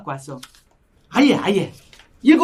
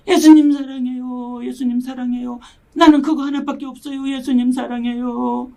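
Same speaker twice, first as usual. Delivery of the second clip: retold tearful prayer; 3 semitones higher than usual. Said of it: "이러고 울었잖아요".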